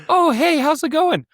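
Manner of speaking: put-on very high girly voice; bright teen girl picking up; girl answering. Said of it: "she's like".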